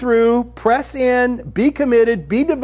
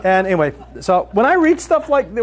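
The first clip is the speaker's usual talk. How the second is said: laughing; 2 semitones higher than usual. Real, not acted. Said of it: "So I started laughing".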